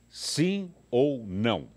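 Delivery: slow, loud question to the crowd; drawn-out call to the crowd. Real, not acted. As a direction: stretch it out, asking the crowd. Host asks the crowd, drawn out.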